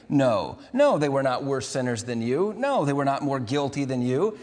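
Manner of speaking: firm, weighty denial with each no punched; emphatic no. Acted. Preacher voicing Jesus to the crowd, emphatic no. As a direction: say no like it settles the matter.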